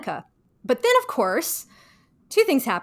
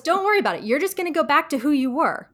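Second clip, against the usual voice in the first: lightly voiced fake Monica, higher; mock-breezy fake Monica; 3 semitones higher, 3 dB louder, faster than usual. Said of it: "And she goes".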